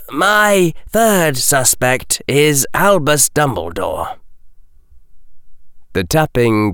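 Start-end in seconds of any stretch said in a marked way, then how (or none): 0.1-4.2 even. Acted. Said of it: "then said evenly".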